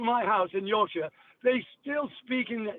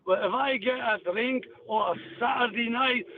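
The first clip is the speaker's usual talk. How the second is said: Glasgow accent. Shown as a demonstration. Demonstrating Scottish for radio hosts, Glasgow accent. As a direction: recite the old song in broad Glaswegian. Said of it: "But here's Glasgow".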